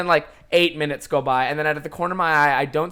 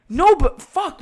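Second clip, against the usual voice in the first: mock frustrated outburst; 13 semitones higher, 8 dB louder, slower than usual. Friend upset about lost recording.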